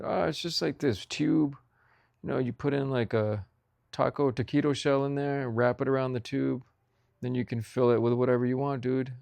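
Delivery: a hint of a hipster friend explaining; explaining buddy. Buddy explaining the tube taco, lightly voiced bro.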